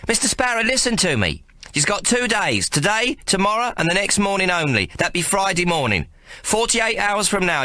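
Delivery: high, lightly voiced girl delivering a threat; a young lass passing on a gangster's ultimatum; Maggie warning.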